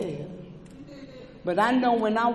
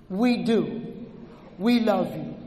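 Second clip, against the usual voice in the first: tender; 4 semitones lower than usual. Real, not acted. Repeated tender reassurance.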